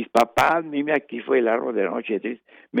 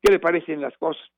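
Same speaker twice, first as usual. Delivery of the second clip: demanding; 5 semitones higher, faster than usual. Shown as a demonstration. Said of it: "sino una exigencia".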